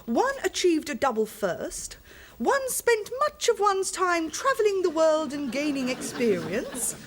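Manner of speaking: lightly put-on posh lady; plummy upper-class delivery. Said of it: "You don't half saying good".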